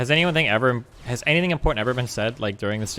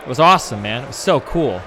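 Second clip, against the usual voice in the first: sarcastic gushing; 6 dB louder than usual. Pretend.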